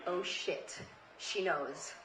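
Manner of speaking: hushed dread to self; panicked inner whisper. Retold or imitated. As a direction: drop to a horrified near whisper.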